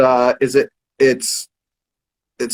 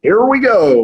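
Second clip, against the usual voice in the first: subway announcer; 7 semitones higher, 4 dB louder than usual. Retold or imitated. Host recalling the little hook in Bang, imitated announcer call. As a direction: stretch it out like a train announcement. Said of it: "some guy from the New York subway".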